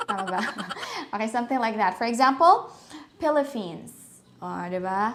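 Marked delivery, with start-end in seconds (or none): 3.2-3.9 Philippines with P and F swapped, Pilipins; Filipino-accented Philippines as PIL-e-feens. Shown as a demonstration. Teacher showing swapped sounds, Filipino accent. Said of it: "inherent to Filipino accent".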